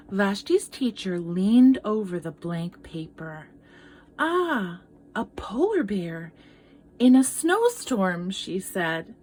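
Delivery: gentle read-aloud storytelling; story narration. Acted. Teacher reading a picture book to children, storytelling voice. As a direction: tell it like a picture book to kids.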